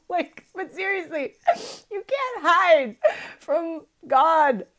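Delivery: high and loud through leftover laughter; still laughing. Real, not acted. Telling viewers you can't hide from God, laughing. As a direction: try to be serious and fail. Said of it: "this is too funny".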